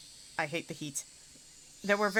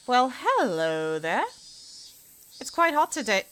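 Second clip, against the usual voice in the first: put-on a lilting English accent for the housewife; 5 semitones higher, 3 dB louder than usual. Housewife greets the landlord over the laundry, English accent. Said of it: "Why am I putting on an English accent".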